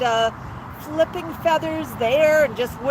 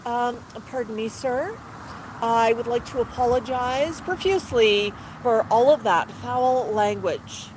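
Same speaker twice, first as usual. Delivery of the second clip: apologetic parrot. Acted. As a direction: lightly act a humbled, courteous parrot. Chastened parrot apologizing to owner.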